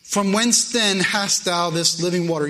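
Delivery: a hint of the skeptical woman at the well; questioning woman. Preacher reading the woman's doubting reply to Jesus. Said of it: "The woman saith unto him".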